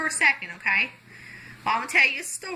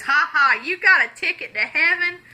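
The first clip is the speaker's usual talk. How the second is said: higher, mildly scoffing rich man; mock laughing; 4 semitones higher, 4 dB louder than usual. Rich man laughs at poor man's ticket claim, mock laughing. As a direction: act out a scornful ha-ha, pitched up. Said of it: "The rich man starts laughing".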